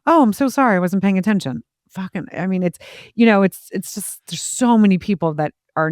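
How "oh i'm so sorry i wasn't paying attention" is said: mock line-cutter apology. Imitating a line-cutter to a cohost, mock apology. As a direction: play the careless stranger caught out. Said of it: "You're like".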